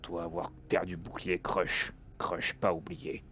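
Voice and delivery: slow, low broken-French brute; caveman voice. Acted. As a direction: speak like a dim half-orc, slowly. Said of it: "je te chuchote dans l'oreille".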